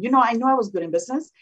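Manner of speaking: fast, tongue-in-cheek boast, ending on a laugh; mocking. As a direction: rattle it off as a mock brag. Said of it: "I sort of made fun of that one".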